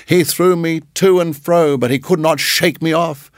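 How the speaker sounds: high gloating mongoose; triumphant. Acted. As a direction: crow with triumph. Rikki triumphant.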